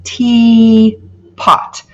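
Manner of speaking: "teapot" as tea then pot; syllables shown. Shown as a demonstration. Teacher modelling the word for students, syllables split. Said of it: "that first syllable is open".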